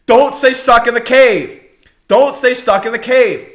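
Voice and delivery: loud urgent plea to the congregation; forceful exhortation. Real, not acted. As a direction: drive the words home from the pulpit. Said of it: "preaching exhortation repeated".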